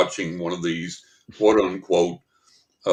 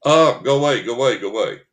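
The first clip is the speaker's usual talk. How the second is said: higher, excited dog voice; happy dog voice; 8 semitones higher, 4 dB louder than usual. Retold or imitated. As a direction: voice the spirit as a glad dog. Voicing spirit as dog.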